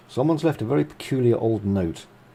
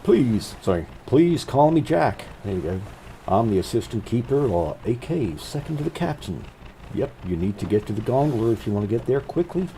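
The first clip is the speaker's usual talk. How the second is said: Kermit-like voice; 3 semitones higher, 3 dB louder than usual. Acted. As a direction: play Jack as a Kermit-ish frog puppet, raised and bright. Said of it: "Sounds a bit like Kermit, doesn't it?".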